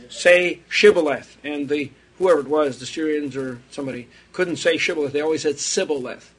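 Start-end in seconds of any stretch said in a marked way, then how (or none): 0.1-1.4 shibboleth with a clear SH; challenge word. Retold or imitated. Israelites testing people at the river, firm, deliberate command. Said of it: "the Israelites said". 5.6-6.3 sibboleth, opening on S instead of SH. Retold or imitated. Outsiders failing the river password, S in place of SH. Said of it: "They couldn't say S-, S H sound".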